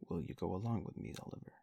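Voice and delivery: grand, fast, pompous beadle; majestic voice. Acted. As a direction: proclaim it like a pompous official. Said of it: "in a majestic voice".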